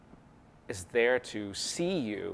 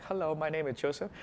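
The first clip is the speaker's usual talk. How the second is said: lightly raised put-on voice, not his own; put-on stage voice; 5 semitones higher, 5 dB quieter than usual. Shown as a demonstration. Opening his magic show to the audience, lightly put-on voice. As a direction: greet them as a mock stage character. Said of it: "I don't speak like that".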